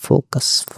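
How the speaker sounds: focus said as in English, fo-kus; English pronunciation. Shown as a demonstration. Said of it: "উচ্চারণটা খেয়াল করবেন". (ইংরেজি উচ্চারণে focus)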